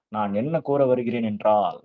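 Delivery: slow, each syllable of நான் என்ன கூற வருகிறேன் என்றால் clearly shaped; careful articulation. Shown as a demonstration. Teacher shows good articulation to the class, slow and crisp. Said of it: "அதுதான் articulation".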